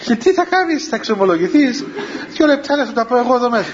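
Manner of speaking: a hint of the possessed girl sneering; mocking possessed girl.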